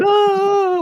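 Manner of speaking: sudden high shout of overwhelmed emotion; overwhelmed cry. Retold or imitated. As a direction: let out a loud high burst of shock. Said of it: "emotion took over".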